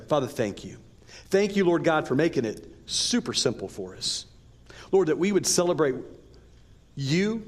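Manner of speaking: earnest spoken prayer to God. Real, not acted. Pastor leading the church in prayer, earnest. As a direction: pray it sincerely, addressing the Father.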